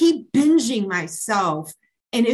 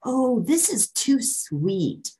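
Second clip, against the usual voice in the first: mimicking dainty eaters; 4 semitones higher, slower than usual. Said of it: "people also saying something like".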